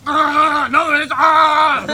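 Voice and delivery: loud, high panicked outburst; hammed-up yelling, fighting a voice in his head; mock freak-out, shouted and drawn out; Eddie Brock. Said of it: "And he'd go".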